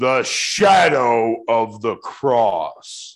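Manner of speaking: booming, resounding, very slow delivery. Recalling Maundy Thursday at the church lectern, you are imitating George Boerichter booming out. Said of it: "booming out".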